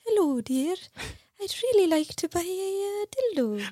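high, genteel old-lady impression; mock-polite falsetto, breaking into laughter; Missus Doubtfire. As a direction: put on a sweet, high-pitched dear-old-lady voice. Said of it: "Daniel walks in as Missus Doubtfire and is like".

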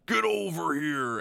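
slow, drawn-out growl of a line; Scorpion catchphrase. Retold or imitated. Retelling the movie, doing Scorpion's slow catchphrase. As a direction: drag it out like a fighting-game villain. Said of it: "He's like".

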